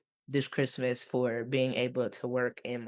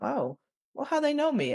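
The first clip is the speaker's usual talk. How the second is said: retold surprise; 13 semitones higher than usual. Retold reaction to caseworker call.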